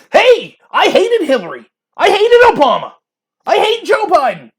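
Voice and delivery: loud, high declarations with pauses between; emphatic disavowal. Acted. Debater trying to sound non-partisan, emphatically disavowing. Voices someone loudly disowning own side.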